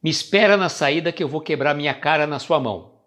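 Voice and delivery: mock-incisive challenge; joking threat, said pointedly. Shown as a demonstration. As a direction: deliver the playful threat with a firm edge. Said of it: "falo assim meio como se fosse incisivamente".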